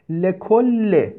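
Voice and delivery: slow reading. Shown as a demonstration. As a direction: read the word out slowly for the class. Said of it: "لکل هم منصرفه". (آهسته و کشیده)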